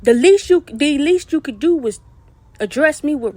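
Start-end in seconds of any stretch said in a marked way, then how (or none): 0.0-2.0 sharp raised-voice flare of anger; angry outburst. Real, not acted. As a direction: burst out with the words. Angry rant at a woman.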